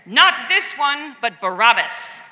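loud, drawn-out call; crowd crying out. Acted. Crowd demands Barabbas from Pilate, loud slow cry. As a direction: cry the demand out slowly and loudly. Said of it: "They cried out again".

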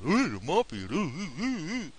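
high mock gasps of awe, half laughing. Mocking how the media would gasp at the mafia, in hammed-up awe. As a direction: ham up a fake shocked reporter.

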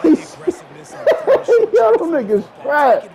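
laughing while talking trash; can't stop laughing at the play. Real, not acted.

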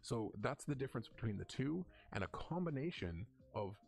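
gender knob turned down; processed voice, same pitch; formant-shifted voice. Shown as a demonstration. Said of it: "my voice sounds different".

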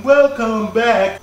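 slow, stretched welcome back; drawn-out welcome. Shown as a demonstration. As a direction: stretch every syllable out. Drawn-out greeting to viewers.

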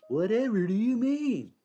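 high, feigned innocence; mock innocent. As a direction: play dumb, high and sweet.

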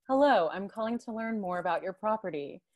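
neat standard American English accent. Shown as a demonstration. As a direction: sound like a polished caller in standard American English. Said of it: "the Muse voice is like".

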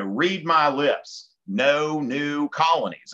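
slow, lightly emphatic presidential pledge; Monroe in own accent. Acted. Teacher voicing Monroe's doctrine as a slogan, slow own-accent pledge. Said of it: "I can say that in my own accent".

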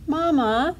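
high, plaintive little call; quacking duckling. A narrator's reading. Duckling arriving home to mother, quacking. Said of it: "Dilly quacked".

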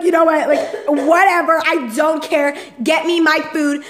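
mock irritated, insistent outburst; laughingly exasperated customer; fed-up retort. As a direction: act out being done with this. Acts fed-up retort to the worker.

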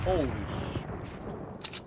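slow startled whisper. Real, not acted. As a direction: breathe it out in shock. Startled by the loud thing.

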